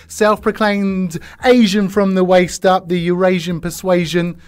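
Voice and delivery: hyped intro. Acted. Host hyping guest introduction.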